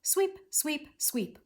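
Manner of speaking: three separated "sweep"s, high then stepping down; sweeping motion. Shown as a demonstration. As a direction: say each "sweep" like a stroke of a broom. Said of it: "with those dashes between is telling me how to say it".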